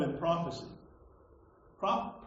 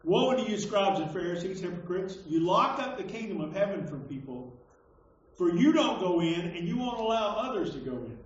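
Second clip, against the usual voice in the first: declaimed scripture reading; 4 dB louder than usual. Acted. Preacher reads Jesus's woes to hypocrites, declaimed. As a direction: hit the opening woe loud, then read on firmly.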